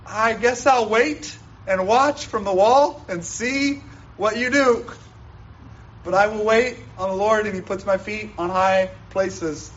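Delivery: lightly acted prophet, pitched high; a hint of a put-on prophet voice; Habakkuk. Acts out Habakkuk's reply to God.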